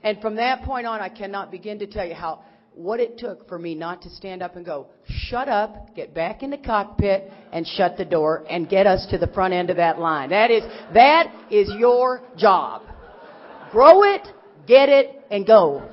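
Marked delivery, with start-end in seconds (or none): 5.1-15.8 imagined telling-off. Pretend. Telling the pilot off in her head, building to an angry shout. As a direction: let it boil over until you're yelling.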